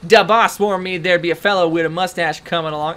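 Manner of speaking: a hint of a mobster's accent; game henchman. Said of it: "what kind of accent to give these guys".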